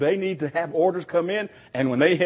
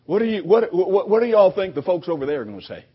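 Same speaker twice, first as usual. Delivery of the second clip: rousing question; 4 semitones higher, 5 dB louder than usual. Real, not acted. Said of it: "asks congregation loudly".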